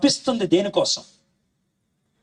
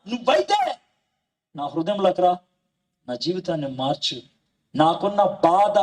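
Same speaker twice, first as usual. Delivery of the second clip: earnest prayer spoken straight to Jesus; model prayer; 3 semitones higher than usual. Acted. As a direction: pray it aloud for the listeners to follow. (యేసయ్యకు హృదయపూర్వక ప్రార్థన)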